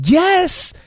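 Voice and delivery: a sudden high burst of triumph; excited yes. Real, not acted. Speaker answering his own question with an excited yes. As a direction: shout it out like a winner.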